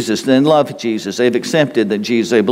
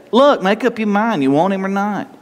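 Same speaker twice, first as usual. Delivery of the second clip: exasperated, pitched high; preacher imagining his impatience with Martha; impatient; 6 semitones higher than usual. Pretend. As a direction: push back, fed up, higher. Preacher voicing impatient self.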